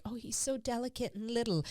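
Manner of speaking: cooing over a puppy. Retold or imitated. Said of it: "I was like".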